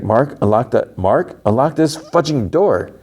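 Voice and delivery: mock-exasperated, stretching the final words; exasperated demand. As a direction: imitate someone losing patience at a locked door. Retold lady demanding he open up.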